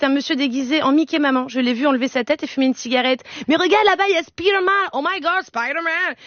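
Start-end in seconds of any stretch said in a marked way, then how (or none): 3.5-6.1 high, gushing excitement; excited. Retold or imitated. Mother showing her son Spider-Man, high excitement. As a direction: squeal with mock wonder at a superhero.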